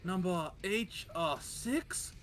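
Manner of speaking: high, sing-song imitation of a Chinese accent; putting on a Chinese accent to order food; mock Chinese accent. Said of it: "I spoke like that throughout".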